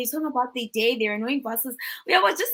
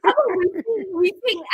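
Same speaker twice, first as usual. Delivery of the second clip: laughing; 8 semitones higher, 3 dB louder than usual. Real, not acted. Laughing along with guest.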